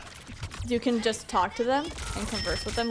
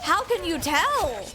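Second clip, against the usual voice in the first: slow, higher, drawn-out mock bafflement; retold incredulous question, stretched out; baffled disbelief; 5 semitones higher, much slower than usual. Asking teammates about his Canadian accent, baffled.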